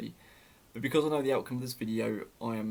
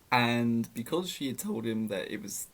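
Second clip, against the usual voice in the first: voice crack. Real, not acted. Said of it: "we're gonna ignore that voice crack".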